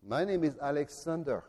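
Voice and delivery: softly, a touch of trembling fear; a frightened soldier, hardly daring to speak; timid, quiet reply; barely audible. A narrator's reading. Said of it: "In a barely audible voice, the man replied, trembling".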